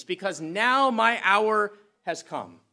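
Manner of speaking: slow, weighty declaration; solemn slow. Acted. Jesus announcing his hour, slow and solemn. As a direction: lean on every word slowly. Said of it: "says Jesus".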